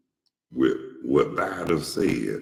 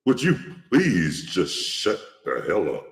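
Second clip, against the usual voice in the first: mock exasperated request, emphatic on each word; imitating a fed-up debater telling someone off; straightforward retort, imitated; 3 semitones higher than usual. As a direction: retell a blunt, open put-down. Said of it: "He was straightforward with the man".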